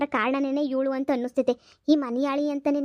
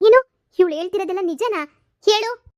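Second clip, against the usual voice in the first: angry demand; 5 semitones higher, 6 dB louder than usual. Acted. Fiancée confronting cheating boyfriend.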